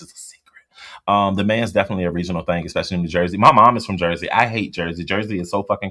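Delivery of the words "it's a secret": real whisper to the chat. Real, not acted. Streamer whispering to chat so nobody hears. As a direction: hush it like a secret. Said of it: "why is O D S whispering".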